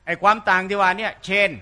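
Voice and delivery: usual speaking voice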